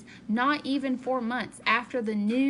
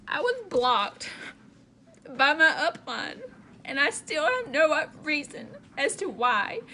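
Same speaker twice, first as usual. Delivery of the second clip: emotional; 2 semitones higher than usual. Real, not acted. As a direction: push through rising tears. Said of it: "I'm freaking getting emotional".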